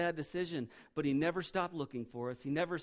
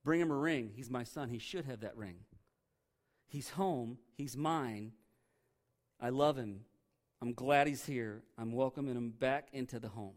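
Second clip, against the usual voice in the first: tender father; 3 semitones lower than usual. Retold or imitated. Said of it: "He says".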